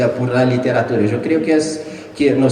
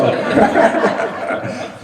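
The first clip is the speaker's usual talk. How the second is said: breathy laugh. Real, not acted. Author laughs about years of therapy. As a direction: laugh at your own confession.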